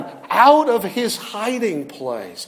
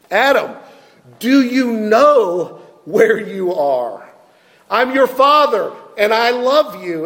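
a hint of a loving father calling, a bit higher; gently pleading, like a father looking for his son; tender fatherly call; 3 semitones higher than usual. Preacher voices God calling tenderly.

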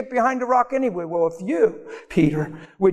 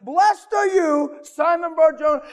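Jesus voiced; 9 semitones higher, slower than usual. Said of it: "He gets a revelation".

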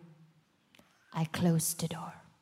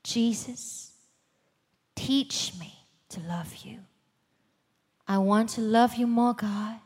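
quiet prayer. Retold or imitated. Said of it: "and I said".

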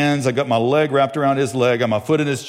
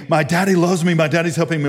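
mock yell, pitched up; retold child screaming; 6 semitones higher than usual. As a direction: call it out like the screaming kid, half-strength. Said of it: "he's screaming".

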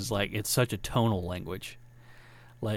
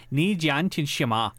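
put-on corrective, slower Chinese-accented phrase; 2 semitones higher, slower than usual. Restaurant woman correcting the learner, Chinese accent. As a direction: say "Ni jian tian shima" slowly with Chinese tones. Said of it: "accent. She was like".

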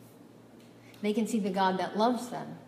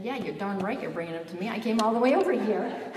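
quick snippy comeback, swelling louder at the end; mock indignant retort; 3 dB louder, faster than usual. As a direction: play at an entitled customer's complaint. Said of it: "before I had my God moment, I would have said".

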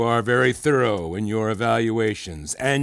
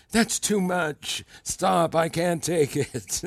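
mock imitation of a flattered student; 4 semitones higher, slower than usual. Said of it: "It's a brilliant impression of me".

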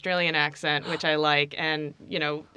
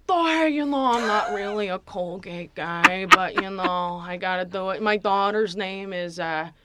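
Sebastian. Acted. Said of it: "how would Sebastian brush his teeth".

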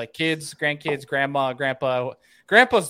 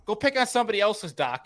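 higher, fast whiny mock voice; mocking the dock owner; 6 semitones higher, faster than usual. Dock owner telling fishermen to leave. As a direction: rattle it off like a grump. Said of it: "he was like".

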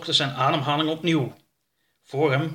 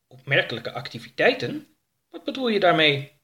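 higher, puzzled alien voice; curious alien Oroka; 4 semitones higher than usual. Acted. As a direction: ask what it means, rising in curiosity. Oroka questions his ship.

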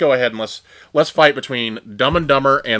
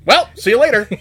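movie farewell quote; 9 semitones higher, 4 dB louder, faster than usual. Retold or imitated.

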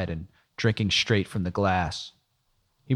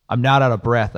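impatient denial; 3 semitones higher, 6 dB louder than usual. Acted. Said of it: "losing my patience".

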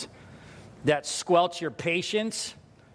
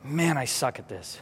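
low, deflated muttering to oneself; dejected self-talk; 4 semitones lower, 4 dB quieter than usual. Acted. Parent alone after blowing up, low dejected self-talk. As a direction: sink into comic self-blame. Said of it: "the self-talk comes in".

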